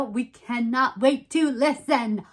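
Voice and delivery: lightly theatrical Moira Rose lilt; slightly grand, stagey sign-off; a hint of Moira Rose. Shown as a demonstration. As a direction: lay on a touch of Moira Rose drama. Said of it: "I sounded like Moira Rose".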